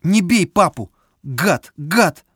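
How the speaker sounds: put-on high angry child shout. A narrator's reading. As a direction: yell it at the guide. Boy defends his father.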